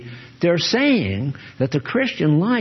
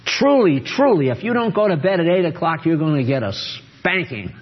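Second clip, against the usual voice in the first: a hint of a stern parent threatening a child. Parent warning a child about bedtime, mock stern. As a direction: lay down the law to the kid, lightly voiced. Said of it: "Imagine if you said to your child".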